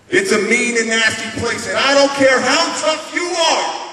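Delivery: loud, forceful motivational speech; Rocky Balboa. Acted. Fighter lecturing on life's hard hits, rousing loud speech. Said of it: "is from Rocky Balboa. Sylvester Stallone. Let me see if I can do it".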